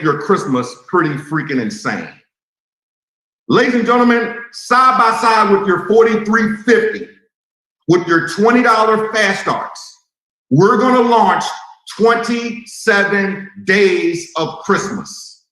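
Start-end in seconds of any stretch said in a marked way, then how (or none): 3.5-15.5 announcer hype. Real, not acted. Big promotion announcement.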